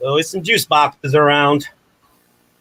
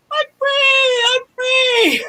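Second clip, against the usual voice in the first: much higher, hammed-up triumphant shout; Born Free lion; 4 dB louder, much slower than usual. The straw escaping its wrapper, hammed-up lion's triumphant cry. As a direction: belt it like the freed lion in the movie. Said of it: "It's from Born Free".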